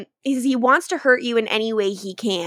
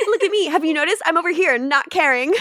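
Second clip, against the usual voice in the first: higher, showy fake indifference; mock look-at-me; 7 semitones higher, faster than usual. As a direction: ham up a tortured vampire not caring. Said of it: "mocking Damon's act".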